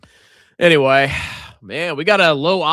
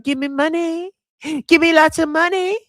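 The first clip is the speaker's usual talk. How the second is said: mock greedy demand; 11 semitones higher than usual.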